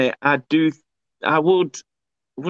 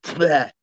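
mock retching. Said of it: "ended up going to the toilet".

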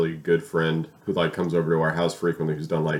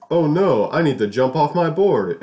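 mock panic; 8 semitones higher, 5 dB louder than usual. Retold panic on board.

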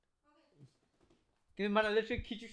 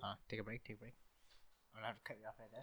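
much softer, hushed, cutting the recording; hushed pause; 7 semitones lower, 15 dB quieter than usual. Real, not acted. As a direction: drop your voice as mom walks in. Mom walks into the room.

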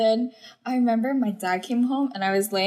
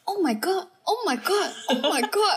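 fake distress; 8 semitones higher than usual. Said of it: "I gotta really milk this".

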